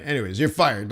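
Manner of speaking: offhand firing. Retold or imitated. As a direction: toss it off casually. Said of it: "That's how they say it".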